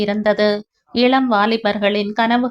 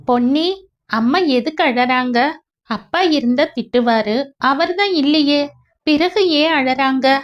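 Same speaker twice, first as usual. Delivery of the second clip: lightly voiced child, pitch lifted; a hint of a small boy's bewilderment; puzzled child; 4 semitones higher than usual. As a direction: ask innocently, with rising questions. Child asks why mother is crying.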